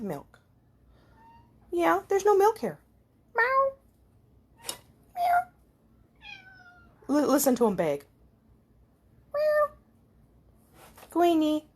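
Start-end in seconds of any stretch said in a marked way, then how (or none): 3.3-3.7 high meow copying the cats; cat meow imitation. To the begging kitties, a high imitated meow. 5.1-5.4 cat meow imitation. Imitating begging cats. 9.3-9.7 high meow copying the cats; cat meow imitation. To the begging kitties, a high imitated meow.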